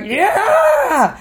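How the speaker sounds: very high, long shouted whoop; acted-out audience eruption; crowd cheer. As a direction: let out a roaring cheer for the underdog. Everyone cheers Ricky.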